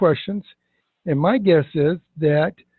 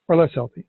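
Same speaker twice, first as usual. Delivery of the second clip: "less" cut short but emphasized; short bold LESS. Shown as a demonstration. Coach finishing the demo question, "less" short and emphatic. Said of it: "I shorten the word less up, but I bold it".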